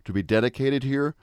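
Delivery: measured, solemn oration; formal speech. Acted. Speaker reciting the Gettysburg Address, solemn and measured. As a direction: deliver it like a memorial address.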